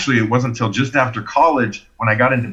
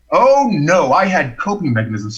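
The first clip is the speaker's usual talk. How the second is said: emphatic denial; 4 semitones higher than usual. Acted. Dramatic turn in his story.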